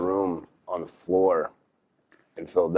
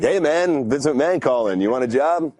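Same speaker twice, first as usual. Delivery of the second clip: mock prank caller; 7 semitones higher than usual. Imagines buddy pranking him.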